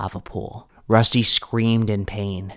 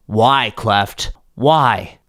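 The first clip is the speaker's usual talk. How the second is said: yelled; 3 semitones higher, 6 dB louder, much slower than usual. Acted. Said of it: "Cleft's father yelled".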